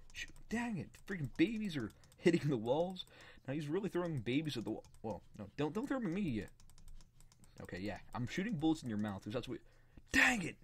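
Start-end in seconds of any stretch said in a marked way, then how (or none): 0.1-3.1 frustrated outburst. Real, not acted. Babies thrown at him in game. 10.1-10.6 loud, high burst of annoyance; frustrated shout. Real, not acted. Getting hit in game.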